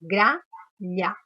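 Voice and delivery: "Gralha" split in two, gra, pause, lha; sílaba por sílaba. Shown as a demonstration. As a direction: say "Gralha" as two separate syllables for counting. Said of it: "quantas vezes eu abri a boca". ("Gralha" separando bem gra-lha)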